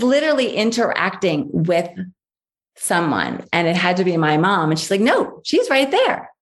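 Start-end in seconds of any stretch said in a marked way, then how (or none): 5.0-6.3 put-on higher, slow little-child insistence; insistent toddler.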